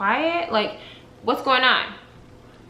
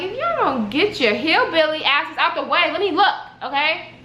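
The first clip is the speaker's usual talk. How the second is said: irritated; 4 semitones higher than usual. Retold or imitated. Acts out irritation at crowding onlookers.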